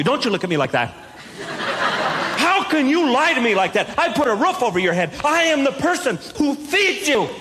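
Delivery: hammed-up parent lecture that keeps cracking into laughter; mock angry parent. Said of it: "I went into that parent thing".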